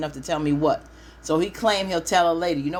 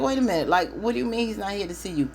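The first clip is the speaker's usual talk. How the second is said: mock disbelief; 5 semitones higher, faster than usual. Friend confused and indignant.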